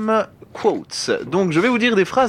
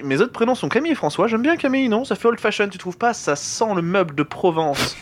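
Van Damme impression; 4 semitones higher than usual. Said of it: "c'est Jean-Claude Van Damme, quoi".

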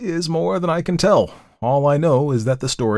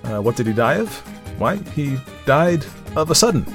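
mildly testy echoed question, then higher answer; rather annoyed; 4 semitones higher than usual. A narrator's reading. Storyteller fends off a persistent questioner, mildly annoyed. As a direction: echo the question, then retort with slight impatience. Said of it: "rather annoyed at the question".

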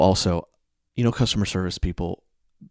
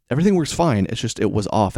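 raised, insistent retelling of a complaint; higher at first, fed up; mildly exasperated complaint; 4 semitones higher, 4 dB louder than usual. Retold or imitated. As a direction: press the point with annoyance. Retold complaint to customer support.

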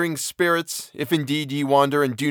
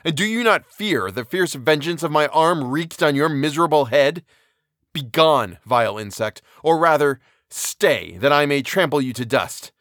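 furious detestation; 2 semitones higher than usual. Acted. Victor rages at the creature he made, furious tirade. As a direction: hurl threats at him in rage. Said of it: "overwhelm him with words expressive of furious detestation".

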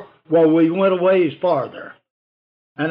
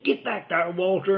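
hushed; 6 dB quieter than usual. Retold or imitated. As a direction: hush him firmly. Telling Walter to keep quiet.

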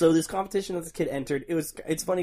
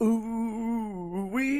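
catchphrase voice; 7 semitones higher than usual. Retold or imitated. Imitating show catchphrase.

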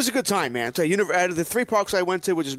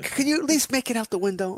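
exasperated plea; 8 semitones higher than usual. Retold or imitated. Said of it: "it's like".

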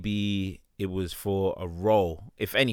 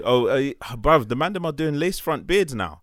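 loud, shocked fucking hell bruv; outraged disbelief; 4 semitones higher, 3 dB louder than usual. Real, not acted. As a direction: react in disgusted disbelief. Outraged at lace front beards.

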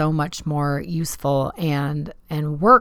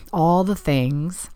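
a slow, breathy whisper of exasperation; slower than usual. Real, not acted. Host muttering to listeners about endless tasks, whispered. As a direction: drop to a whisper at the end.

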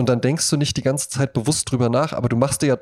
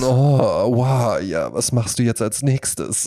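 phone sex moan; much slower than usual. Retold or imitated. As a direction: ham up a sultry hotline voice. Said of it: "dabei sagt die halt eben so".

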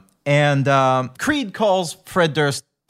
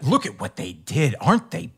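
goody-goody mock; 3 semitones higher than usual. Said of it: "kind of a goody-goody move".

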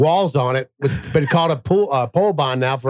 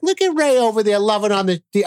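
higher-pitched imitation of wife and daughter; mock admiring; 6 semitones higher than usual. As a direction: gush in a put-on high voice.

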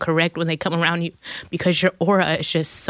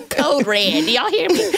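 mock hype call to a crowd; 8 semitones higher than usual. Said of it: "I'm gonna be like".

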